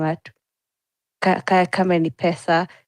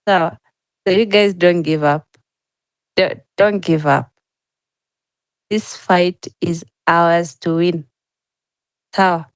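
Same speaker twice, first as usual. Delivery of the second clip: rallying shout; 4 dB louder than usual. Real, not acted. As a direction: shout it out to fire up the crowd. Rallying the crowd, shouting encouragement.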